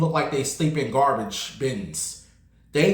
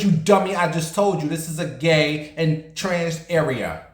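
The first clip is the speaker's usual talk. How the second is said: heated retort; 3 semitones higher than usual. Retold or imitated. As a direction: lay into the man, fed up. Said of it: "I said".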